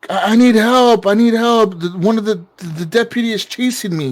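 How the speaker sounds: mild mock panic, stumbling over the words; retold panic. Caller begs the operator for help, retold panic. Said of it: "he's, like, yelling".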